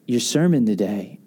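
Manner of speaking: low, halting imitation of an upset man; retold subdued tearfulness. Wrecked bartender approaching pastor after service, mock-tearful and subdued. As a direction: keep it heavy and low, without sobbing. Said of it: "He is, like, bawling, crying".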